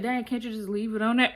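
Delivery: friend's line said through a laugh; laughing quote. Retold or imitated. Friend joking about the car, laughing lightly. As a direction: tease the girl with a giggle. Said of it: "Fabby Laura's so funny".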